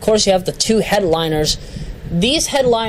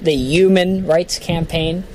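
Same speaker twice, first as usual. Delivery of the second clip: put-on Brooklyn accent with Human said yuman, slow; Bernie Sanders; slower than usual. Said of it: "or as Bernie Sanders says it".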